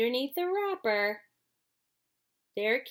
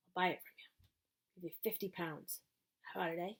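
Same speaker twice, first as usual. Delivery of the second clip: much softer, hushed offer; whispering; 3 semitones lower, 10 dB quieter, faster than usual. A narrator's reading. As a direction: whisper it so nobody hears. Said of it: "the man whispered".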